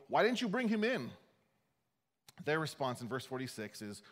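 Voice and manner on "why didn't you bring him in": mock demand. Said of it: "priests and the Pharisees demanded".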